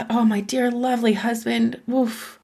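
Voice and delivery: soft, affectionate address; tender apology. Retold or imitated. Wife apologizing to her husband, soft and tender. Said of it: "you go back and you say".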